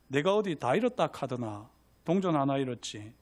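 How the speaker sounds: sister's retort in light Gyeongsang dialect. Acted. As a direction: answer back with a Gyeongsang lilt. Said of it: "경상도 사투리로 할게요".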